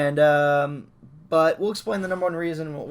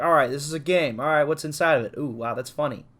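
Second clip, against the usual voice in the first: excited; 3 dB louder than usual. Retold or imitated. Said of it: "Yakuza literally is like".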